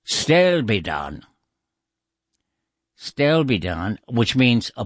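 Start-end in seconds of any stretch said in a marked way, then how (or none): 0.1-1.2 "stelbidan" sounded out slowly, long final ahn; Irish pronunciation. Shown as a demonstration. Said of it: "it comes from". 3.0-4.0 "Stelbidan" repeated, ending in a long ahn; Irish pronunciation. Shown as a demonstration. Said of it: "it comes from".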